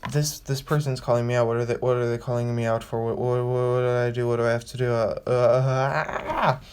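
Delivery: stammering, rattled, a mock-flustered ramble; mock nervous panic. Someone who feels called out, mildly flustered. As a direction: play at being caught out and fumbling. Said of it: "and will wonder".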